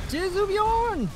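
loud, very high, slow cry; high hammed-up shout; drawn-out high yell. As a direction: holler it out, stretched long. Cries out in game.

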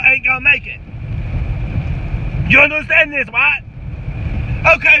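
lightly voiced football coach firing up the team; halftime pep speech. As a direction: coach hyping up his players at halftime. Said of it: "Here it goes".

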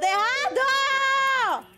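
high, loud panicked cry; high panicked wail. Real, not acted. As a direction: wail that it's all ruined. Repeated in distress.

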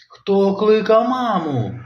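high, slow mum's question; mum's call. Acted. Mum arriving, high questioning call. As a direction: sing out as mum.

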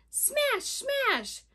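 two high, punched smashes; kicking sound words. Acted. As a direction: pop each smash up high. Imitating kicking feet.

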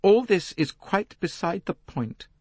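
slow, icy, held-back reply; cold voice. Acted. Lynette coldly dismissing Poirot's accusation, icy and slow. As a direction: freeze him out, measured and cold. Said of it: "said in a cold voice".

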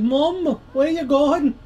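high, lisping mock girl voice; squeaky little-girl impression. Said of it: "What accent was that?".

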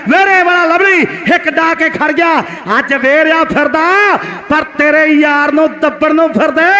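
frantic rural sports commentary. Acted. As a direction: hype the stopper up. Excited call of the stopper.

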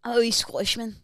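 imitated Scottish accent. Co-host copies host's line, attempted Scottish accent. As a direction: parrot back a rough Scottish accent. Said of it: "They do Scot-, Scottish accent".

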